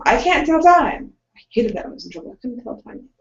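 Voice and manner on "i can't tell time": put-on high, drawn-out child's excuse; protesting kid. Kid in trouble excusing himself over five minutes, protesting. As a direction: protest like a kid caught out, pitched up and slower.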